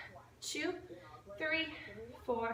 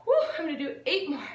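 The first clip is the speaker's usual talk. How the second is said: laughing through effort; 4 dB louder, faster than usual. Real, not acted. Strained workout, laugh heard.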